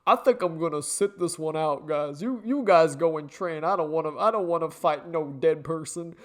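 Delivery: lightly voiced scaredy-cat; mock him as a timid coward; mocking impression. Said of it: "This motherfucker is literally just like".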